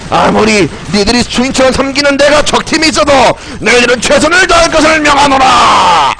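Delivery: lightly hammed-up commanding lord; mock royal decree. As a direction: proclaim it like a mock ruler. 왕처럼 팀에게 명령함. (왕처럼 살짝 과장된 호령)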